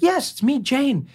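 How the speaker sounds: very high, delighted schoolmate voice; squealy put-on recognition; imitated excitement.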